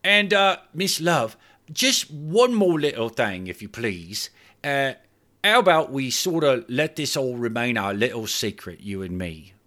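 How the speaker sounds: nervous hotel man pleading for secrecy; nervous Clive. Acted. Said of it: "Clive asked nervously".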